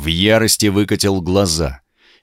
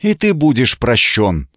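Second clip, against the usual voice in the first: clear voice; 3 semitones higher than usual. Acted. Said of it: "тем же ясным голосом".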